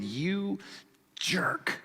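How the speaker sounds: slow, seething build into a high shout; loud, drawn-out vengeful yelling; furious brothers. Acted. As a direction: explode with long-held resentment. Brothers turning furiously on Joseph.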